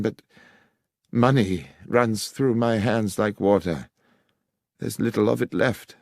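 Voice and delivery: a hint of a defeated gambler; vicar's confession. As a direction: confess the debts with shame. Vicar confesses his theft.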